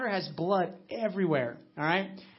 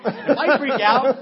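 laughing it out, much louder; 6 semitones higher, 15 dB louder, slower than usual. Retold or imitated. Father telling the frightened friends why he stayed calm, laughing. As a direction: retell your own line through a laugh. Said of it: "And I was like".

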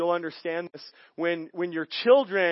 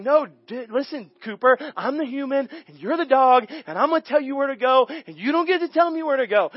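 firm, higher owner laying down the law; stern talk to the dog; 6 semitones higher than usual. Retold or imitated. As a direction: put the puppy in its place, half-joking. Telling the dog who leads.

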